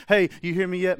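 acted call to someone not listening. God calling to distracted listener.

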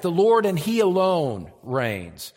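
fervent pulpit emphasis; preaching. Acted. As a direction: drive home that he alone reigns. Preaching at full force.

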